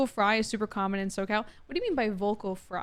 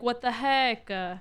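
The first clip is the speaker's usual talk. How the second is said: put-on Valley Girl vocal fry; 2 semitones higher, slower than usual. Shown as a demonstration. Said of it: "like that".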